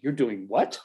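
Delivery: imitated disbelief, pitch leaping up at the end; mock a coworker's stunned question; incredulous coworker. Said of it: "this reaction from your coworkers".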